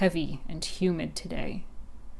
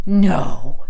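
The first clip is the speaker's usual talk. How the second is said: sharp, loud shocked no; cat reacting to the crow's news; hissed; 12 dB louder than usual. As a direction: recoil in disbelief. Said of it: "the cat hissed".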